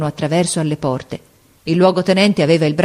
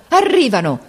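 high, elated shout; cry of joy; 7 semitones higher than usual. A narrator's reading. Captain repeating the sergeant's news, cry of joy. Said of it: "con un grido di gioia".

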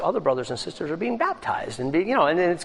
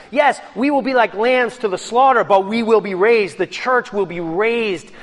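rousing preaching; 6 semitones higher, 4 dB louder than usual. Real, not acted. Preaching climax on resurrection.

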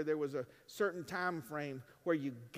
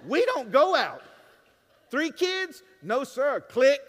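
shouted much higher and louder; 7 semitones higher, 12 dB louder, slower than usual. Acted. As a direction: proclaim it loud.

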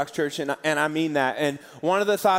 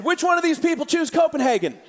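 incredulous question; 9 semitones higher than usual. Retold or imitated. Imagined question to a crowd.

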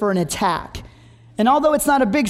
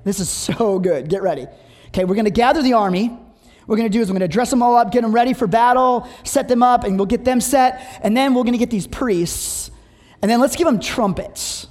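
Joshua pitching the plan. Retold or imitated. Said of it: "then he goes to the people and is like".

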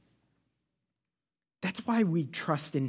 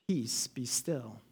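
hushed calm command; 6 semitones lower, 8 dB quieter, much slower than usual. Acted. Jesus hushing wind and waves.

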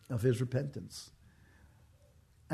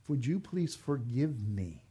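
sincere plea; slower than usual. Shown as a demonstration. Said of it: "that's what you have to do".

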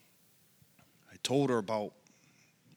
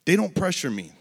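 high, louder reluctant agreement; grudging okay; 9 semitones higher, 7 dB louder than usual. Retold or imitated. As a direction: imitate her conditional yes, pushed up. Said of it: "She goes".

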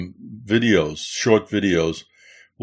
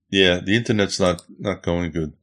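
badly breaking up call audio; 3 semitones lower than usual. Real, not acted. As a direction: signal cutting out mid-sentence. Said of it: "No, you're breaking up bad".

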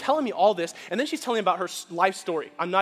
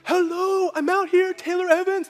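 calling through the glass much higher and louder; 11 semitones higher, 8 dB louder, slower than usual. Retold or imitated. Pastor calling through the hospital speaker, raised voice.

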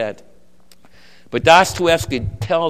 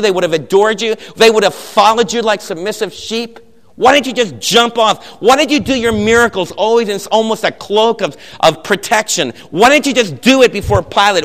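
loud, higher, relentless accusing questions; grand inquisitor berating; 4 semitones higher, 4 dB louder than usual. Retold or imitated. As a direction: hammer every why at the prisoner. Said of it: "The conversation goes kinda like this".

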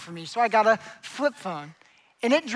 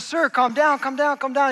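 urgent, slightly high, repeated appeal; police officer calming; 4 semitones higher, 3 dB louder than usual. Acted. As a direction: play an officer trying to settle someone frantic. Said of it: "the police officer runs up to him".

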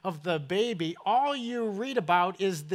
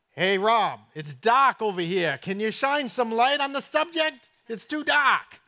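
put-on northern accent, calling out louder; louder northern accent calling across the shop; 3 semitones higher, 4 dB louder than usual. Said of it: "I've gotta say this in his northern accent".

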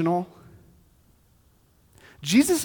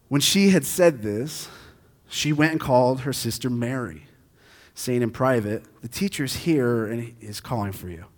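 scripture reading; 3 semitones lower than usual. Acted. Pastor reading the passage aloud. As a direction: read the passage calmly.

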